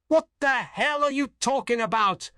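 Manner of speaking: high, incredulous outburst; exasperated outburst. A narrator's reading. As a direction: confront them in disbelief. Acted confrontation, grabbing the shoulders.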